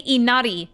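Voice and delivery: "inari" as ee-NAH-dee, r tapped; Japanese pronunciation. Shown as a demonstration. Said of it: "you wouldn't say".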